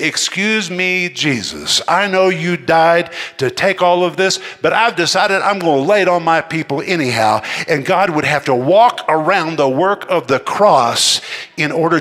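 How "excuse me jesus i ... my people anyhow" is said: God speaking. Pretend. Preacher voicing God to the congregation, mock-polite. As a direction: play God politely excusing himself to Jesus. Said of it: "God would have to say".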